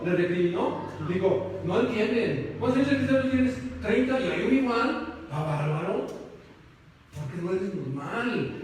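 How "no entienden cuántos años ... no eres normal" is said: reproche en broma, empieza alto y va bajando; regaño fingido. Pretend. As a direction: imita a quien recrimina. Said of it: "No lo regañó". (regaño simulado)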